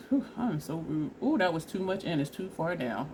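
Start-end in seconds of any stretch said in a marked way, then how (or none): none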